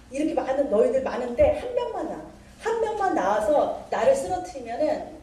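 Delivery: lightly acted giant's taunt; mocking challenge. Goliath dares Israel to send one man, mock taunting. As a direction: goad them into a fight, storyteller's imitation. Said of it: "막 그러면서 막 조롱을 하는".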